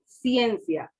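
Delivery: ciencia spoken smoothly, ie in one beat; ciencia joined. Shown as a demonstration. Teacher repeating ciencia to the class, diphthong joined. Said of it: "Ciencia, ciencia".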